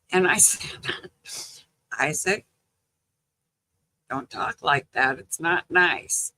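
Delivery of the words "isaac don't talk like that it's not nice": mild retold scolding. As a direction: gently reprove a grandchild, voice held down. Grandma's first scolding of cussing grandson.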